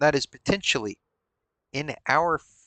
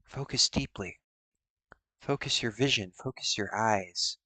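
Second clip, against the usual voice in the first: soft hypnotic fortune teller; 4 semitones lower, 7 dB quieter than usual. Pretend. Seer hushes to soft guidance.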